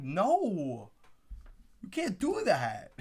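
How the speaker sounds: mock whiny little kid; kid pouting. Fan imitating a pouting little kid at the draft. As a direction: pout it like a child. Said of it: "I feel like a little kid pouting".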